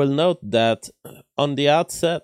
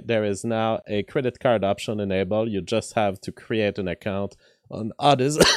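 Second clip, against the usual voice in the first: thin, tired weak voice. Real, not acted. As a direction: speak with a worn, weak voice. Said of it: "my voice is weak today".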